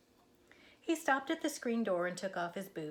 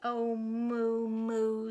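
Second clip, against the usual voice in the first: louder, fond sigh of a cow; fond Minnie; 3 semitones higher, 5 dB louder, much slower than usual. Acted. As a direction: gently scold a dreamy friend. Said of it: "said Minnie".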